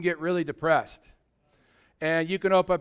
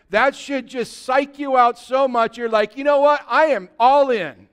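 raised, loud preacher's delivery; impassioned preaching; 4 semitones higher, 6 dB louder than usual. Real, not acted. Preacher urging the congregation to go all in for Jesus, impassioned. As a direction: preach it out with building force.

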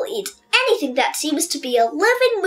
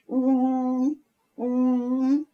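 1 bullfrog imitation; 3 semitones lower, 4 dB quieter than usual. Shown as a demonstration. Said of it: "I can imitate a bullfrog sound".

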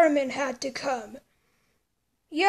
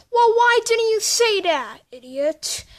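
exasperated; 4 semitones higher, 4 dB louder than usual. Acted. Exasperated outburst.

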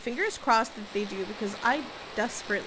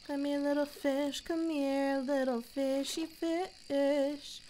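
coaxing the fish; 3 semitones higher, slower than usual. Pretend.

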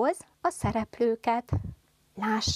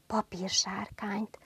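whisper; 5 dB quieter than usual. Shown as a demonstration. Teacher whispers the example word.

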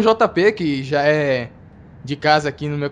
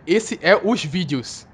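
mocking quote; much slower than usual. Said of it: "belo português dele".

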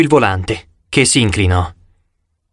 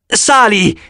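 shrill panicked yell; shrieking; 7 semitones higher than usual. A narrator's reading.

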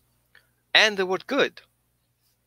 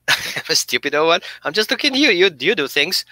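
lightly voiced dog, pitch jumping up, a touch louder; puzzled dog; 3 dB louder than usual. Dog wondering aloud to owner, light mock bewilderment. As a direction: play the dog, half-sheepish. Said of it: "And your dog is like".

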